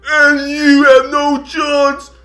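loud, slow villain threat; Bane voice. Retold or imitated. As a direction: menace them slowly like Bane. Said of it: "It's Bane".

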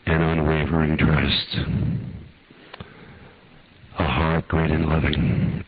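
earnest, measured prayer voice; fervent pastoral prayer with long pauses. Acted. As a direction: pray over the congregation, unhurried. Leads a closing prayer.

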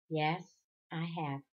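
low, soft, spent admission; exhausted. A narrator's reading. Father confesses he has seen IT, exhausted. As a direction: barely push the words out. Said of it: "Again his voice sounded exhausted".

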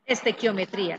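"Estequiometría" said evenly with stressed í and falling end; pronunciation model. Shown as a demonstration. Teacher answers student how to pronounce it, "Estequiometría" modelled with stressed í. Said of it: "Profe, ¿cómo se pronuncia?".

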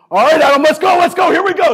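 high, loud hype-up yell; coach hype shout. Retold or imitated. Coach firing up Adam before the lift, loud yell. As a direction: fire up your lifter, all out.

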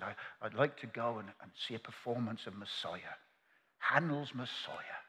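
lightly voiced rural English old man; soft, a hint of country accent; country boy accent. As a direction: play the country uncle lightly. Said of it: "a country boy".

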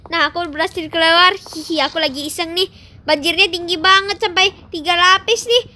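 a giant gloating over the flooded town, lightly voiced; playful giant. Plays the giant character.

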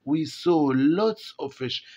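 slow reading aloud. Shown as a demonstration. Teacher reading the text to the class, very slowly. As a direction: read each English word very slowly for the class.

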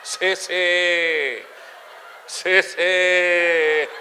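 dragged, repeated stammer on SÍ; stutterer. Acted. Stutterer answering the vendor, blocked and stammering. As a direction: stick on the first syllable until the word escapes. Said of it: "que son tartamudos".

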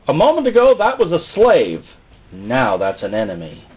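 devil's alarmed voice. Acted.

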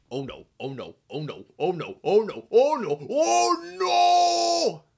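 mounting panic. Acted. Engine watching the crash approach, mounting panic. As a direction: escalate from worried mumbling to a long cry.

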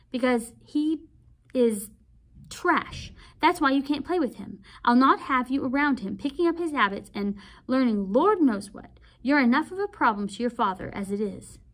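lightly voiced aunt, pausing before trash; a hint of cold scorn, word by word; contemptuous aunt. Aunt calling Walter trash.

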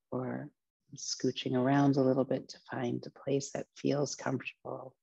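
unhurried meditation instruction with long pauses; guided relaxation. Acted. Teacher opening a relaxation practice, guided meditation voice. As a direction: guide listeners gently into the practice.

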